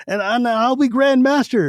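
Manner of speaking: feverish ranting. A narrator's reading. Dying Derek gripping Sturm's hand, feverish high ranting. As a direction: rant it with rising fever. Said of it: "Derek starts ranting".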